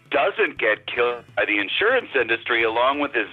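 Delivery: sarcastic. Acted. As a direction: gush with obvious sarcasm. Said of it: "two can play at that game".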